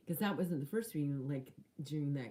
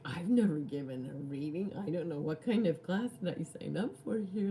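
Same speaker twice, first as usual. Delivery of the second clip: loud, rising panic at her own confusion; panicked retelling; 2 semitones higher, 6 dB louder than usual. Retold or imitated. To the stranger in class, a flustered mock panic. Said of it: "I'm like".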